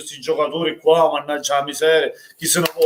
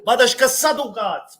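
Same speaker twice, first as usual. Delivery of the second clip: exasperated curse; 5 semitones higher than usual. Real, not acted. Fan cursing after goal.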